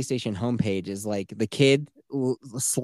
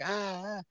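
imitated recorded gasp; 8 semitones higher, 12 dB quieter than usual. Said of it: "like, a pre-recording".

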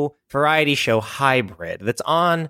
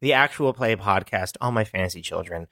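low, quick, subdued host read; mock-serious podcast intro; 3 semitones lower, faster than usual. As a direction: welcome listeners with put-on seriousness. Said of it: "This is a very serious podcast".

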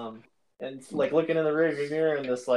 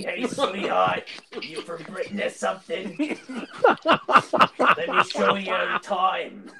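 slow, lightly voiced older lady teasing; 3 semitones higher, 4 dB louder, slower than usual. Lightly mocking older woman hitting on the boys, slow and teasing. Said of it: "That sounded just like Eugene's mom".

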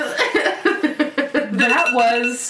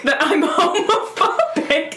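ordinary talk, nothing marked

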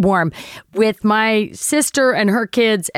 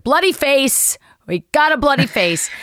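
retold alarmed cry; 5 semitones higher than usual. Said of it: "I'm just like".

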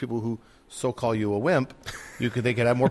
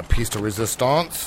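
bad French accent; slower than usual. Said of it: "with my bad French accent".

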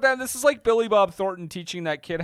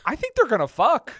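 laughing; 5 semitones higher than usual. Retold or imitated. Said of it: "I would be like".

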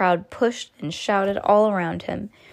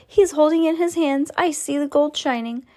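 excited; 8 semitones higher than usual. Acted. Crowd voice still shouting.

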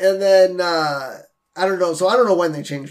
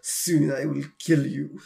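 low, softer menacing mutter; muttered under breath; 4 semitones lower, 6 dB quieter than usual. Retold or imitated. Host retelling a killer's aside during a foot rub, muttered low. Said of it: "under his breath".

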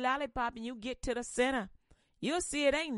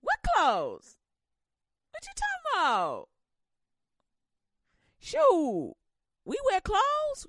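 higher, louder brash woman; loud and higher, unbothered; carefree Eve; 4 semitones higher, 3 dB louder than usual. Acted. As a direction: Eve shrugging off the nakedness. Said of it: "crazy Eve like".

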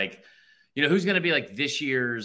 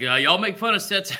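put-on higher, louder Southern accent; 6 semitones higher, 6 dB louder than usual. Quoting a listener's tweet, in a put-on Southern accent. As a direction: put on a Southern twang, pitched up. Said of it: "I'm giving a Southern accent".

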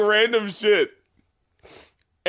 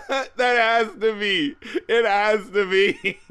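laughing; 4 semitones higher, slower than usual. Real, not acted. Insisting while laughing.

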